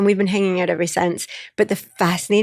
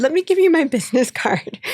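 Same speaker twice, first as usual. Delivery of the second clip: laughing reveal; 8 semitones higher than usual. Retold or imitated. Revealing her last name.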